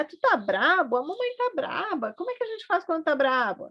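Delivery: put-on high sing-song baby talk, asking about anger. Shown as a demonstration. Mother to her baby, naming anger in high baby talk. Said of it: "aí é a hora que a gente faz a cara".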